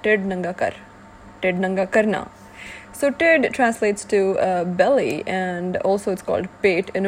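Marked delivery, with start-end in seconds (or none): 0.0-0.7 "Tid nanga kar" said in Punjabi, TID stressed and falling; "Tid nanga kar", Punjabi sounds, TID prominent; Punjabi phrase. Shown as a demonstration. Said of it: "Let me try saying it again". 1.4-2.3 "Tid nanga karna" in Punjabi, KARNA prominent; "Tid nanga karna", Punjabi sounds, KARNA prominent; Punjabi phrase. Shown as a demonstration. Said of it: "Let me try saying it again".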